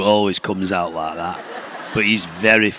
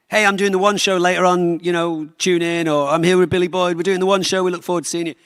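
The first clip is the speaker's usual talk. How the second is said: TV promo read; 9 semitones higher than usual. Retold or imitated. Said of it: "do a couple of little throws".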